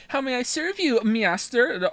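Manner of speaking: a hint of a doting robot maid; servile maid robot voice. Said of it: "is fucking Poppy from Xenoblade Chronicles two".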